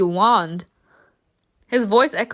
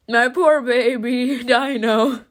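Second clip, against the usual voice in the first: doting pity; 3 semitones higher, slower than usual. Real, not acted. Fussing over a favorite character.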